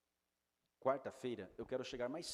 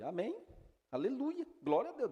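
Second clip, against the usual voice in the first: much higher and louder, bursting with joy; joyful outburst; 12 semitones higher, 6 dB louder than usual. Retold or imitated. Pastor hears man wants baptism, joyful shout of praise. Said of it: "dei pulo de alegria".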